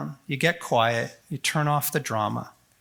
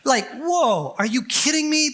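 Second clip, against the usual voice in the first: mock alarm; 10 semitones higher than usual. Mock alarmed reaction to question.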